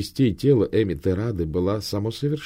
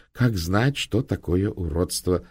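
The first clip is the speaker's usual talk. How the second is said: conciliatory; slower than usual. Acted. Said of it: "примирительно сказал он".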